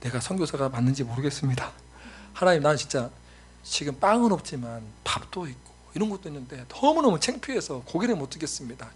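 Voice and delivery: a touch of remorseful confession; repentant prayer. Retold or imitated. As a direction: pray it ashamed and humbled. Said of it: "회개했어요".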